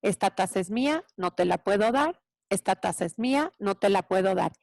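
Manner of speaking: evenly repeated, unruffled refusal; composed parent not getting hooked; calm broken record. Shown as a demonstration. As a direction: repeat it calmly like a scratched record. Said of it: "yo con toda tranquilidad, me convierto en algo que se llama el disco rayado".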